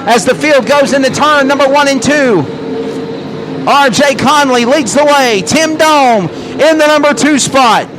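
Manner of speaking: fast race-call commentary; live play-by-play. Real, not acted.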